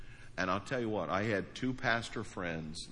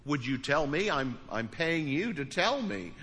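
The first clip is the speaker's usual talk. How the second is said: higher, louder retold plea; 6 semitones higher, 4 dB louder than usual. Pastor retelling pleading with his counselors, raised and urgent. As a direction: beg them for an answer, raised and urgent. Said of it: "And I said".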